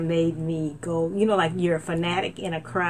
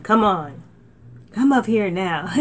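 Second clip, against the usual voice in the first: loud, inviting call; God beckoning loudly upward; 4 dB louder than usual. Retold or imitated. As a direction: call them up warmly but loud. God calling the listener.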